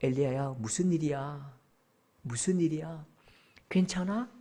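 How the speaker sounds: God asking gently; gentle concern. Acted. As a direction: check on them tenderly, in a hushed voice. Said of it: "그렇게 물으신다고요".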